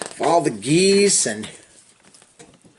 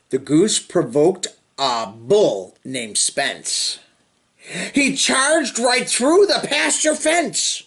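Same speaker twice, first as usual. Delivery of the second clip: lively sing-song storybook reading; reading to children; slower than usual. Acted. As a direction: read the rhyme to little kids with bounce. Reading picture book to children.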